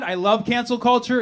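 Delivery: a cheerful boast of loving it; high mock-enthusiastic declaration. Real, not acted. Comic to crowd, gleeful high boast. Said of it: "I, on the other hand".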